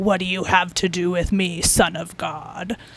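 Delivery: startlingly deep, dropped voice. Retelling what a cute little girl said to someone, imitating a deep voice. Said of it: "this deep voice comes out of her".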